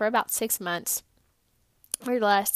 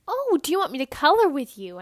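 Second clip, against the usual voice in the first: a bit higher, quick, eager invitation; enthusiastic offer; 4 semitones higher, 5 dB louder, faster than usual. Retold or imitated. Volunteer cheerfully asking a sad boy to color, lightly enthusiastic. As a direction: brightly offer to color together. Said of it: "I was so enthusiastic about it".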